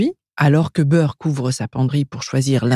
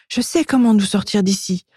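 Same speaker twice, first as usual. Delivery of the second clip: high, light elf voice; plotting little elf; 7 semitones higher than usual. A narrator's reading. Elf telling her friend the plan, high-pitched. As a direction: share a clever plan in a higher voice.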